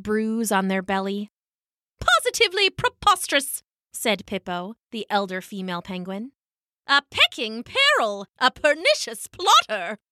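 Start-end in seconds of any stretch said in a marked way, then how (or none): 2.0-10.0 a lightly voiced fussy elder; fussy elder penguin. Elder female penguin Pippo.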